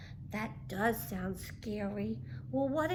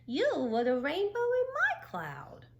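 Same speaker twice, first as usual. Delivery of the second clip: louder, higher, bursting with joy; excited Frizzle; 6 semitones higher, 5 dB louder than usual. A narrator's reading. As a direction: let the happiness spill out. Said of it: "Frizzle exclaimed".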